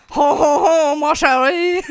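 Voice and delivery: hammed-up French accent with big laughs; loud, playful mock French; ho-ho-ho like a cartoon Frenchman. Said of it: "give me your best French accent".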